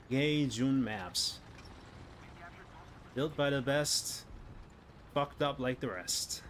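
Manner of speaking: slow mock advertising line; dry mock commercial; sarcastic slogan. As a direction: deliver it like a bitter ad tagline.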